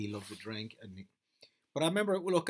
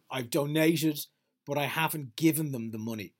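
mock Amber Heard; 7 dB louder than usual. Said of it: "She is".

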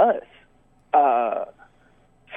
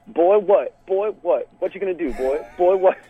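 put-on country boy squaring up; 4 semitones higher than usual. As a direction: puff up and taunt him like a country boy. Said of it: "square up to each other and go".

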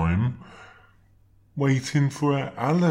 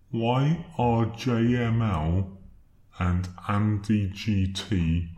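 slowed down deep. Real, not acted. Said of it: "Your voice is slowed down".

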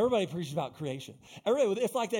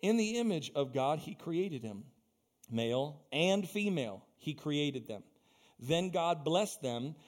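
scripture reading. Acted. Preacher reading Genesis aloud to the congregation, measured.

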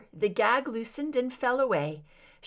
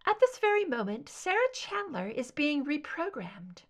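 raised, cool soprano; 5 semitones higher than usual. Acted. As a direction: state it coolly.

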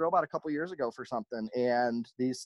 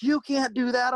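high, louder indignant customer imitation; mock meltdown; 10 semitones higher, 5 dB louder than usual. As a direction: act out her outraged protest. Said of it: "she had a meltdown".

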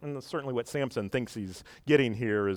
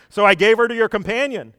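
nervous father-in-law; 8 semitones higher, 8 dB louder than usual. Retold or imitated. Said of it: "her father says".

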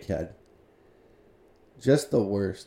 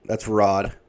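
usual speaking voice

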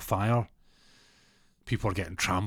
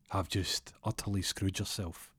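slow, quiet triumph; 6 dB quieter than usual. Retold or imitated. Captive turns the tables.

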